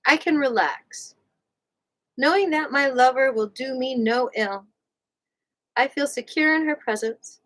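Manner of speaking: measured audiobook-style reading; book read-aloud. Real, not acted. Host reads a relationship book to listeners, measured read-aloud. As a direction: read it out in careful, separate phrases.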